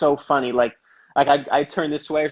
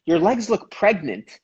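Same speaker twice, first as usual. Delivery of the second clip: put-on higher, slow old Italian grandma; slow, higher mock grandma voice; grandma's blunt remark; 5 semitones higher, slower than usual. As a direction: lightly mimic grandma's deadpan jab. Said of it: "she's like".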